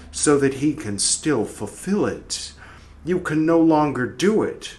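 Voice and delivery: dramatic soul speaking to the dead; lightly voiced soul, stern; soul's voice reading. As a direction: read it as the accusing soul. Reading Red Book soul's speech.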